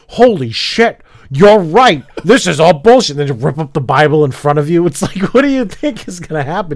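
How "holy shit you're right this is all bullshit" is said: higher, louder mock conversion; mock sudden revelation. Mocking how a believer might react to atheist proof, exaggerated. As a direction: ham up a believer suddenly seeing the light. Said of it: "You think they're gonna be like".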